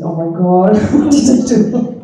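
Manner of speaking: alarmed words breaking into a laugh; laughing panic. Retold or imitated. Summoned by Swami Vishnu, she laughs out her alarm.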